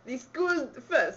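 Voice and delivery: put-on slow, failed Russian accent slipping into Italian. Reader attempting a script, shaky-sounding Russian accent gone Italian. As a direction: drag it out in a botched Russian accent. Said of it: "We'll both try a Russian accent".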